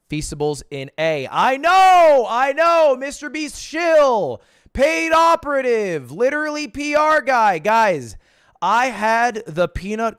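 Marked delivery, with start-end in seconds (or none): 1.3-3.0 loud, high mock protest; playful defensive yell; mock outrage. Mock outrage at imagined critics. 3.0-7.6 higher, louder hammed-up heckler; a hint of a sneering viewer; mock chat accuser. Voicing imagined chat accusations.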